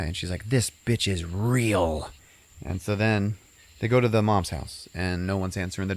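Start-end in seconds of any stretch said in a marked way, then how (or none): 0.5-2.1 slow, deliberate deadpan. Retold or imitated. Heroine telling boyfriend the ghost is real, slow deadpan. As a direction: drag each word out flatly.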